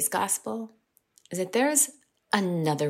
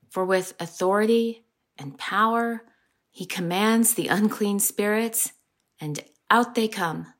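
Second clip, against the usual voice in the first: measured, solemn scripture reading; gospel reading. Acted. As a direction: read the Gospel to the congregation. Reads the gospel aloud.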